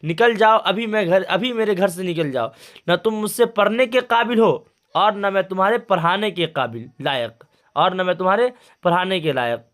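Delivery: retold angry shout, easing off. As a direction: throw the student out in a hammed-up rage. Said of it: "नहायत गुस्सैली आवाज़ में कहा".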